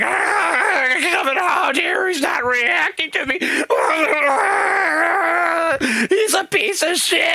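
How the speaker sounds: high, wailing, drawn-out hysterical screech; mock crying, screaming tantrum; spurging guy meltdown. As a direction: shriek like a ranting man losing it. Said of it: "you see the other guy spurging".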